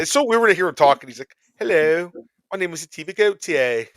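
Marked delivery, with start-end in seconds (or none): 1.6-3.9 imitating a British accent, slightly higher and louder; a playful mock British accent. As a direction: put on a posh-ish British accent for a laugh. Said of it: "Was that a good British accent?".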